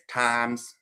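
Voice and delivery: Southern drawl on one word; lightly Southern-accented. Shown as a demonstration. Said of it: "I speak with a Southern accent".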